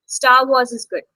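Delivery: "Star Wars is good" with the s of "Wars" carried into "is"; linked words. Shown as a demonstration. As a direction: link "Wars" straight onto "is". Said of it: "trying to mix the words".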